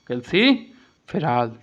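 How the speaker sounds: कैल्सिफेरॉल slowly, split in two parts; slow repeat of term. Shown as a demonstration. Teacher repeating the answer for students, slow and split. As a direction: spell out कैल्सिफेरॉल by ear for learners. क्या कहते हैं.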